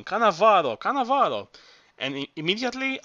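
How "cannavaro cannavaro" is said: mock parrot squawk climbing higher; parrot shout. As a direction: screech the name like the parrot. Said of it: "he begins shouting".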